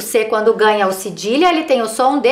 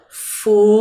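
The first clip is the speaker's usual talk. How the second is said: syllable by syllable; 3 semitones lower than usual. Shown as a demonstration. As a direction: sound out Fumaça as fu-ma-ça. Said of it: "Agora eu coloquei elas, é, separado em sílabas". (lendo sílaba por sílaba)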